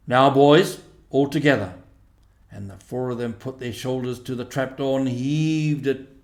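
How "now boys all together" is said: rallying call. Acted. Badger rallies for the heave.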